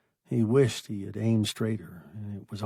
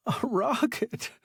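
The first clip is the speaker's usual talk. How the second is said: stunned disbelief; 12 semitones higher than usual. A narrator's reading. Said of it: "he said".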